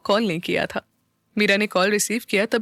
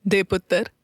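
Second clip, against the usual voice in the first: calmly. A narrator's reading. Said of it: "शांत भाव से कहा".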